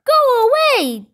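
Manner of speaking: loud, high villagers' shout; high yell. A narrator's reading. Villagers throw things at Kipper, yelling. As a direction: yell it high to drive someone off. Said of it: "they yelled".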